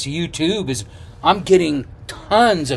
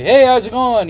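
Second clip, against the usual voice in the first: much higher, bouncy greeting; cheery hello; 9 semitones higher, 5 dB louder than usual. Retold or imitated. Walking into the regulars' bar, overly cheerful higher hello. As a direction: breeze in all happy and say hi.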